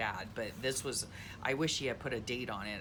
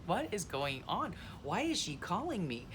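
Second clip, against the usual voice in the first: higher-pitched mock bewilderment; playfully baffled, pitched up; retold bafflement; 5 semitones higher than usual. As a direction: act out your puzzled thought. Retelling her baffled thought on call.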